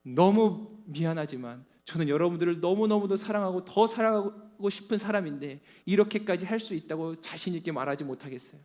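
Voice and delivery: normal talking voice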